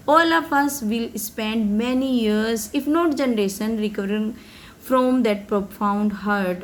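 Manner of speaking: slow, careful read of a speech text; slow reading aloud. Acted. Teacher reading Mandela's speech to students, slow and careful. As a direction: read each English word slowly for the class.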